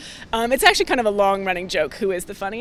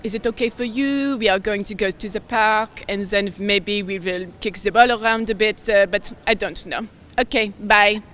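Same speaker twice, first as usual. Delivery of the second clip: put-on French accent. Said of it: "Let me see if I can get into him".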